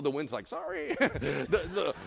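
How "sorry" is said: tiny high-pitched apology; sheepish wind. Acted. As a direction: squeak it out like a scolded culprit. Voices the chastened wind.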